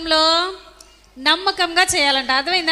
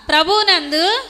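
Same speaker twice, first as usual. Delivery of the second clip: slow, each phrase ending on a rise; feed the verse phrase by phrase for repetition; slow recitation for repeating; 2 semitones higher, slower than usual. Shown as a demonstration. Leads boys in verse repetition. (నెమ్మదిగా, పిల్లలతో వల్లె వేయిస్తూ)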